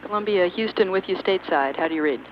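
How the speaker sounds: crisp radio call over the comm link; like a voice through a spacecraft radio; sci fi communicator. Real, not acted. Ground calls shuttle over radio.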